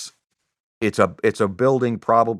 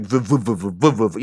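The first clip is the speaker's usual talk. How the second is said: fan noise; 2 semitones lower than usual. Retold or imitated. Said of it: "fan that's like".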